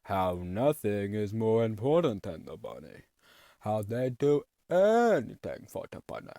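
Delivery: slow, loud, grandiose boss voice; villain boss speech. Retold or imitated. Boss telling employees to love the bunny, slow and grand. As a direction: preach the bunny like a pompous tyrant. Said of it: "So then he's like".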